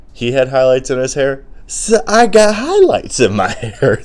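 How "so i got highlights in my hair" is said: high laugh breaking through the words. Real, not acted. Laughing at how he copied his uncle. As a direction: laugh it out, squeaky and amused.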